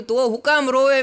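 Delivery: loud, high rebuke; mock scolding. Comedian loudly scolds a married man for crying. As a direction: scold the sobbing groom playfully.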